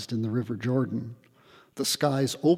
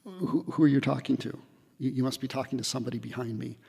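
mock disbelief; 5 dB quieter, much faster than usual. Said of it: "this is my reaction".

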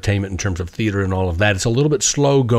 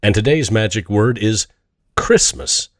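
announcer style; slower than usual. Acted. Magic word show segment.

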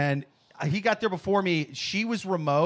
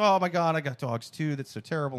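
warming up to caller; 3 semitones lower than usual. Retold or imitated. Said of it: "kinda warming up to her a bit".

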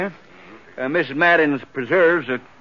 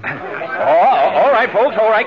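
laughing; 4 dB louder, slower than usual. Acted. Judge tries to calm laughing crowd.

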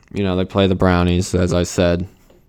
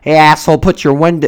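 mock angry yell; 7 semitones higher, 7 dB louder than usual. Retold insult from the other driver.

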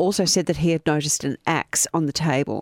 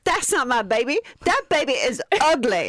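put-on hillbilly accent; 7 semitones higher than usual. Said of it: "better in a hillbilly accent".

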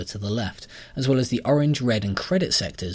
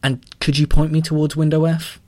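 through gritted teeth; 7 semitones higher, 7 dB louder than usual. A narrator's reading. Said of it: "said Callum through gritted teeth".

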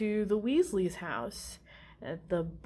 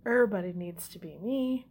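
full of himself. Retold or imitated. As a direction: imitate a man who adores himself. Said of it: "hella full of himself".

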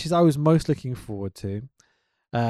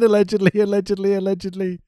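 mock emphatic; 5 semitones higher, 5 dB louder than usual. Mock repeating co-host's phrasing.

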